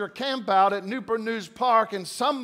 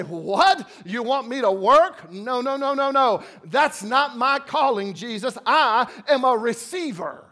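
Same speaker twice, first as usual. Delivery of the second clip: mock reluctant churchgoer. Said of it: "we'd say".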